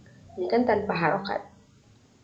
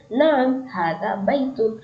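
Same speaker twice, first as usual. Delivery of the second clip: slow model answer; 3 semitones higher, slower than usual. Shown as a demonstration. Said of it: "Kalau jawabannya iya".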